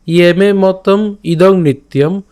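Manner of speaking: teacher reciting the shloka for the class; slow Sanskrit recitation. Shown as a demonstration. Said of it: "আমি আবার বলছি".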